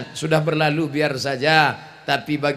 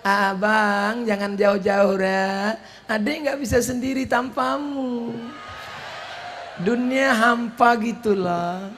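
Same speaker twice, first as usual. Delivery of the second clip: soft pleading wife; 5 semitones higher, 4 dB quieter than usual. Retold or imitated. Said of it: "Sekarang kata-katanya lembut".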